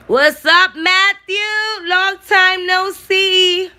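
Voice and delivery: excited high greeting, stuffed up; congested voice. Real, not acted. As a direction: call out happily with a blocked nose. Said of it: "Excuse my nasty ass voice, but I'm mad sick".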